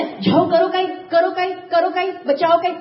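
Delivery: repeated, insistent appeal, lightly acted; retold urgent plea. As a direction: act out a crowd begging for help. Animals urging monkey king to help.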